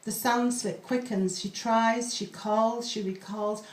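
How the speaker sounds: slow, measured poetry reading; poem reading. Acted. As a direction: read the pantoum slowly, hauntingly. Reads a pantoum aloud.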